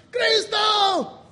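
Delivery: high, drawn-out shouted response; congregation's shouted answer. Retold or imitated. Imitating everybody answering the church call, shouted. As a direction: shout back as a whole crowd would. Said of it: "Everybody goes".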